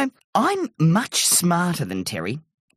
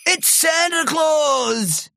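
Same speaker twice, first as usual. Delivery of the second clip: high, drawn-out cry of excitement; excited cry; 8 semitones higher, much slower than usual. A narrator's reading. Terry hears jingling and jumps up, excited cry. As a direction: cry out slowly with childlike excitement.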